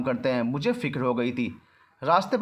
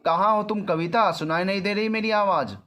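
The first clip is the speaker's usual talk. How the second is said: angry raised call, pitched up; furious shouting; 6 semitones higher than usual. A narrator's reading. Manav furious that Kavita won't answer, angry shout. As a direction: demand an answer, frustrated. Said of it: "मानव गुस्से से पागल हुआ जा रहा था".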